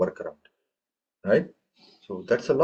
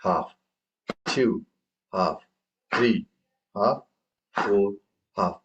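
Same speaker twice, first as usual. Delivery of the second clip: counting half beats; 2 semitones lower, slower than usual. Shown as a demonstration. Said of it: "I'm just making this hand up".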